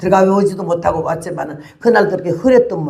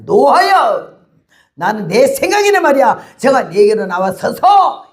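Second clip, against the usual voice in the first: furious outburst; 4 semitones higher than usual. Retold or imitated. Preacher acting out Naaman storming off, angry shout. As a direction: rage like a slighted general, slowing at the end. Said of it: "이러면서 막 화가 냈어요".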